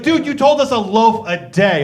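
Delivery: played-up exasperated objection; acted indignant protest. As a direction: push back, indignant and incredulous. Acted protest at changed food advice.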